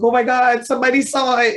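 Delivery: high, hammed-up panic at being seen; mock childhood panic. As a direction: replay the eleven-year-old's alarm, high and light. Retold childhood panic at picture day.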